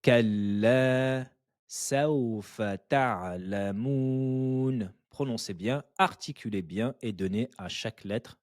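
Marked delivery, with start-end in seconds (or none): 0.0-4.9 measured tajweed chant of the verse; Quran recitation. Shown as a demonstration. Teacher reciting the verse for students, chanted. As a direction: recite it clearly for students to copy. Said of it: "Une dernière fois".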